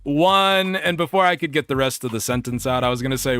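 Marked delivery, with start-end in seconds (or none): 0.0-0.8 nervous halting greeting. Retold or imitated. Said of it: "and so I'm saying".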